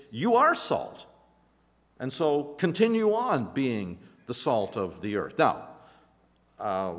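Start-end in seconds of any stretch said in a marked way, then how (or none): 0.1-5.4 firm declaration. Shown as a demonstration. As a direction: declare it, no invitation.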